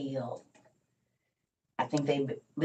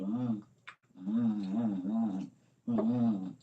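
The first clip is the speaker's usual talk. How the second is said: mock yummy hums; 5 semitones lower, much slower than usual. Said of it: "so she can say".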